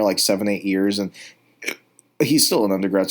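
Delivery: speaking through hiccups. Real, not acted. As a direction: hiccups breaking up the words. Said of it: "Sorry, I'm hiccuping".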